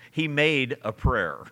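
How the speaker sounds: slow, stressed "He MADE a PRAYER"; emphatic, amused quote. Retold or imitated. Preacher quoting a book's jab at a stranger, emphatic and amused. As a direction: lean slowly on "made" and "prayer". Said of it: "He emphasizes the word prayer".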